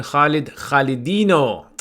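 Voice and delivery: slow, drawn-out mock Brazilian name; playful Brazilian flourish. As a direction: stretch the name out with a light Brazilian lilt. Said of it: "like a Brazilian Khalid here".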